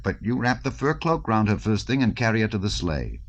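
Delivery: hint of a knowing ringleader; lightly voiced Dolokhov.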